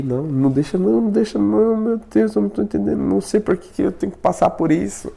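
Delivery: high, pleading mock panic; frightened plea. Man begging God against the presence, high frightened plea. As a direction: beg God to take the presence away.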